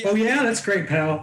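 in his own world. Retold or imitated. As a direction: brush the fan off cheerfully without listening. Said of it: "he's just in his own world".

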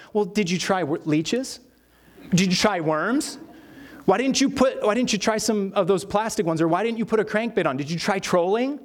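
lightly acted rapid-fire friendly nagging; mock helpful fishing-buddy questioning; pestering buddy. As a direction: pile on unwanted suggestions, one question after another. Buddies pester with fishing advice.

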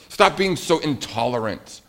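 mock-indignant kid snapping back at a brother; hammed-up protest; acted anger. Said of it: "And then I get angry".

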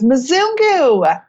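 put-on high, drawn-out child's cry; lightly voiced excited child; little girl calling out. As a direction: imitate a small girl's eager call. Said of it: "this little girl darts at me".

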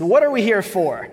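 mild preacher's yell; screaming the question. Acted. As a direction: call the question out to the room. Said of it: "I don't know why I'm screaming it".

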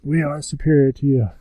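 imitated Dalek boast. Dalek boasting to the Cybermen, imitated Dalek. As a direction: declare it stiffly as a villainous Dalek. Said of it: "And they're like".

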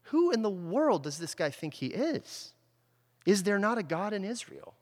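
mock-indignant preacher outrage; appalled outrage. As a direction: voice David's shocked disbelief at the giant's insult. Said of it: "David's appalled".

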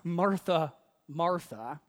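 "Martha, Martha," said twice with weight; double emphasis. Acted. Jesus answering Martha, "Martha, Martha" doubly emphasized. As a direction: give each "Martha" its own falling emphasis. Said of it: "double emphasis there".

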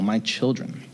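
gentle fatherly tenderness; tender. Shown as a demonstration. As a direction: say it like a loving parent to his kids. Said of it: "that tender, sweet heart".

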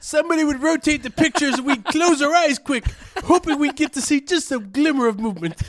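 put-on high old-timer voice; old prospector. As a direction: reminisce like an old geezer.

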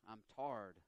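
low Southern drawl on "tarred"; southern dialect. Shown as a demonstration. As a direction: say tired as "tarred", Southern style. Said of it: "speak it in my southern dialect".

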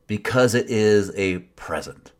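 mocking. Shown as a demonstration. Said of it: "I can't even say it without mocking it".

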